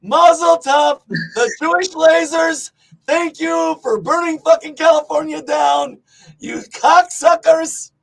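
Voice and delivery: hammed-up rant at conspiracy theorists; loud sarcastic mock tirade. Mock ranting at Jewish lasers.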